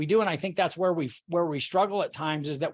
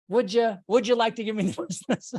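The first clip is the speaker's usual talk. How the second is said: sarcastic mock question; 5 semitones higher than usual. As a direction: parody the client, snickering. Mocking the client's request.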